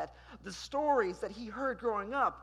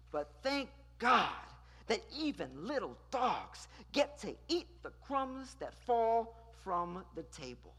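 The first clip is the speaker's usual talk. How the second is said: firm, defiant, unbowed; a touch of defiant indignation; bold indignant reply. Shown as a demonstration. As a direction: answer back with dignity. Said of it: "she boldly says".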